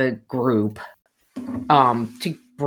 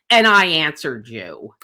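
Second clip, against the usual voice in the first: curt rebuff; 4 dB louder than usual. Retold or imitated. Club president cutting her off mid-sentence, curt rebuff. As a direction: imitate a dismissive, put-out retort. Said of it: "Just like that".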